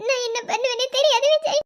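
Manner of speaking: teary, trembling fear; choked worry; crying. Acted. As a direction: say it through tears. Wife fears for sister-in-law.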